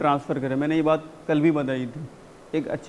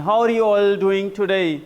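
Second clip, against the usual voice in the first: slow, raised greeting with energy; high pitch; 4 dB louder, much slower than usual. Shown as a demonstration. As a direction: greet the room brightly and slowly. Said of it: "इस तरीके से pitch को थोड़ा सा high रखना है". (पिच थोड़ी high रखकर)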